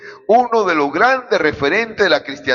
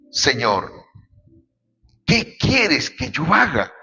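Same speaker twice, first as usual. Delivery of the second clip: slow, hushed plea of a shaken man; a touch of trembling awe, drawn out; trembling and fearful; slower than usual. A narrator's reading. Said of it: "él temblando y temeroso dijo".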